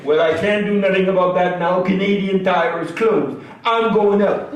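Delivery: put-on old Acadian storyteller, franglais, lively; Acadian character voice. Stand-up character telling the crowd about his wife, Acadian accent. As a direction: play Lucien grumbling about wife and doctor.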